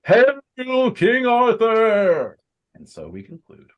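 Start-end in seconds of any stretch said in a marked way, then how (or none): 0.0-2.4 very high, long drawn-out shout; climactic crowd hail. Acted. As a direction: let the last cheer soar, slowly stretched. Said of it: "And finally".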